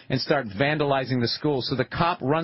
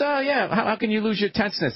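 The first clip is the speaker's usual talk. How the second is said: higher, lightly voiced flirty woman; hot chick voice; 6 semitones higher than usual. Retelling the woman's line in the shark movie, mock flirty. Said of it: "She goes".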